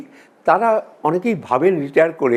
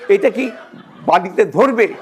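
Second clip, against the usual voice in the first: raised, a touch angry, asking the passenger; angry woman; 3 semitones higher than usual. Retold or imitated. Woman at the station, angry at a joking passenger, raised voice. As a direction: demand it higher, irritated.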